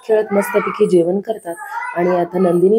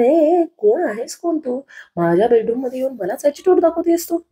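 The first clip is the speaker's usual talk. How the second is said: husband yelling; 3 semitones higher than usual. Acted. Husband finally yelling at his wife over the bed, scolding. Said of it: "जीवाच्या ओरडण्याने".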